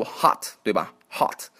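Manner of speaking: American "hot" with a wide open "ah"; American accent. Shown as a demonstration. Teacher shows how Americans read it, American accent. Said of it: "美国人会读".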